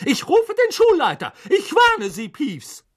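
high, loud threatening scold; angry warning. A narrator's reading. Professor threatens Peeves with the headmaster, angry high shout. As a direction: shout a last warning at a troublemaker.

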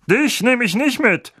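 loud, high uncle snarl. A narrator's reading. Uncle snapping at Harry at the door, snarled. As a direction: snarl the refusal. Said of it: "schnarrte er".

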